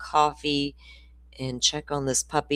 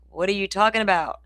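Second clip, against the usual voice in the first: quick, higher, bewildered question; baffled question; 4 semitones higher, faster than usual. Retold or imitated. Florida girl baffled by the mountain dialect, quick and bewildered. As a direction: blurt out the question in confusion. Confused reply to strange dialect.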